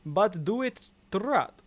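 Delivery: Russian accent. Shown as a demonstration. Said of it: "That's how you say trot with, like, a Russian accent".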